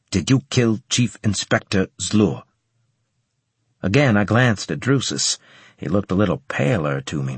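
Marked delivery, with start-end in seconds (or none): 0.1-2.4 put-on slight Japanese accent. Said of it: "with a slight Japanese accent".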